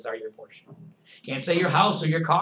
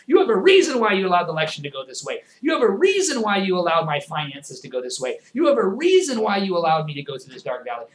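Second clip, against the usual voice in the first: earnest prayer; 5 semitones higher, 5 dB louder than usual. Shown as a demonstration. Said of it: "to see".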